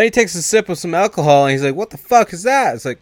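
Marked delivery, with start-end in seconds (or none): 1.8-2.7 high, loud retold outburst; mock shocked. Little boy reacts to sip of alcohol, mock shocked. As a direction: play a kid's startled exclamation.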